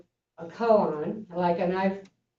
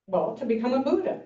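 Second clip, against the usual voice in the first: monk answering; 6 semitones higher, faster than usual. Retold or imitated.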